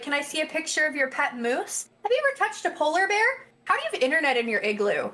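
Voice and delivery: high-pitched mock questioning voice; stupid internet questioner. Asking a Canadian about pet moose, mock clueless questioner. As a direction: play a clueless online stranger, lightly mocking. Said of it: "stupid questions from other people on the internet".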